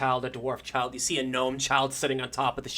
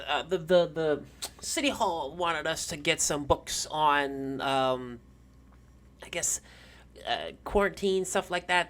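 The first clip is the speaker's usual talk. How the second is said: put-on old lady; 2 semitones higher than usual. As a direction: grope for words like a doddery old woman. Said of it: "it's the old lady".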